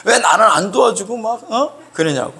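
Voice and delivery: high, lightly heated complaint; acted grumbling. Preacher mimics someone resentful at working alone, acted grumbling. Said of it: "승질".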